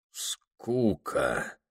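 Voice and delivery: quiet, dazed and faraway, as if delirious; dazed whisper. A narrator's reading. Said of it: "переспросил, словно в бреду". («Скука?» тихо, как в бреду)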